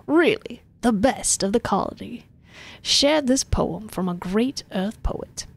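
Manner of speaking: slow, self-satisfied politician voice; pompous politician. Acted. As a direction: praise him slowly and smugly. Governor speaking, slow.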